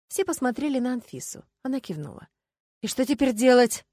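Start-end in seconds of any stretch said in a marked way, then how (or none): 2.8-3.8 raised, louder baffled question; puzzled. A narrator's reading. District officer asking the others for a next step, puzzled. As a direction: ask it at a loss. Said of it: "озадаченно спросил участковый".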